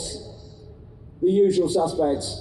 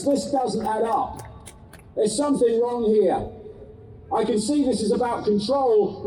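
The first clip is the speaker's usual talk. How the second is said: defiant declaration; 5 semitones higher than usual. Retold or imitated. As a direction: stand your ground and refuse. Voicing the defiant group.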